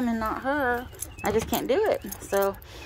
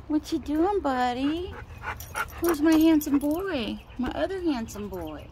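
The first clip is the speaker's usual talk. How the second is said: pet talk; 5 semitones higher than usual. Real, not acted. Talking to her dog.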